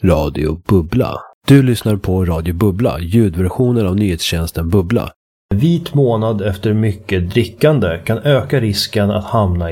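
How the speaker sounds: measured newsreader delivery; radio news read. Acted. Radio host introducing the news item to listeners, news read. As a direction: read out the station ident and headline. Station ident and headline read.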